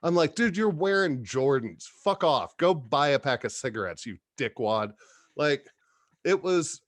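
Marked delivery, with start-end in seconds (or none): 0.4-4.9 acted irritated telling-off; indignant, moderately heated quote; retold infuriated rant. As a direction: tell him off, retelling your anger. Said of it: "I was infuriated".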